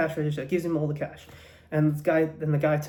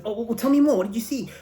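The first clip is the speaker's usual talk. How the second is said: higher, pressing questions; urgent questioning; 5 semitones higher, faster than usual. Acted. Police to witness after a robbery, urgently questioning. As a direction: act an eager cop pressing a witness.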